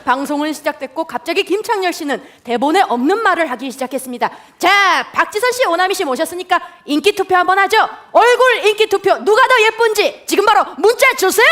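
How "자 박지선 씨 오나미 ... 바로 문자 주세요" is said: high, loud DJ impression; radio DJ voice. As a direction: pitch it like a radio host. Imitating the radio DJ.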